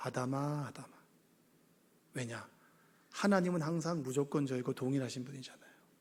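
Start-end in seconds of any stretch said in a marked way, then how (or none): 0.0-0.9 affectionate, warm calling voice. Reading how God called out to Adam, warmly calling Adam. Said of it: "따뜻하게 불렀을 것 같아요".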